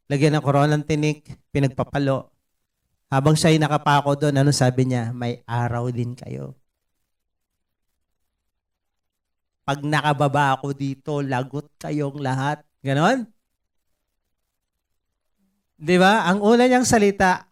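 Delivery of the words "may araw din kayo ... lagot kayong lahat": mock vengeful threat.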